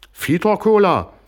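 very high, slow, squeaky put-on girl voice; excited daughter squeaking an offer; eager offer. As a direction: chirp the question up high.

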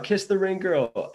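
high, slow shouted call; yelled out. Retold or imitated. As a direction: yell it across the ring. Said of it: "yelled out".

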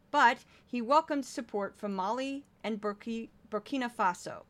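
measured news-segment delivery; news read. Real, not acted. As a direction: read out the stories as a newscaster. Reads a news list.

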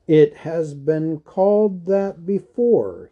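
understated alarm, spoken with weight; grave warning. A narrator's reading. Wizard alarmed, answers gravely.

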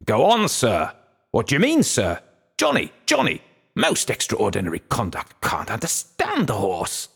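high, spluttering mock outrage, like a pompous old man; pompous, indignant old gentleman. A narrator's reading. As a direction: imitate an affronted old gentleman, pitch leaping up. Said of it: "was highly indignant".

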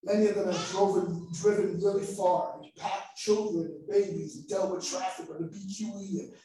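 steady, earnest prayer voice. Acted. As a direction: pray over the congregation sincerely. Leads a prayer.

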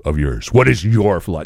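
earnest, insistent imitated African accent; in-depth African accent. Drunk African man demanding philosophy, earnest imitated accent. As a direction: press for wisdom in a mock African accent. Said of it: "it's just so in depth".

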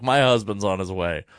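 a wife calmly warns the pizza place, lightly imitated calm; calm version. Wife calling the pizza place, mild imitated calm. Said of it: "the calm version of what he just said".

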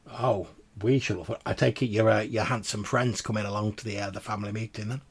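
put-on sly old woman asking sweetly; old crone voice. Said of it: "the crone says".

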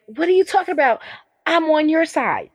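imitating an offended ally, pitched high; high-pitched mock protest; indignant protest. Self-declared ally objecting to criticism, in mock indignation.

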